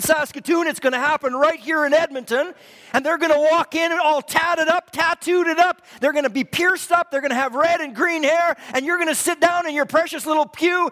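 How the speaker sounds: forceful, ringing sermon delivery; full-force preaching. Real, not acted. Preacher urging the church to roll the stone away, preaching hard. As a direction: preach it out with driving conviction.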